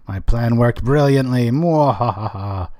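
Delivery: hammed-up villain gloat, slow laugh at the end; mad scientist. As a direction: gloat like a cartoon evil genius. Villain gloat at own plan.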